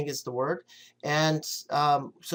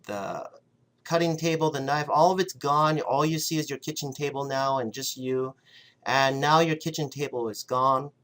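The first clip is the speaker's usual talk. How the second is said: guided visualization. Acted. Leads a visualization.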